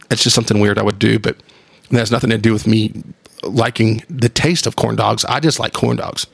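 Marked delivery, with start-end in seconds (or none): none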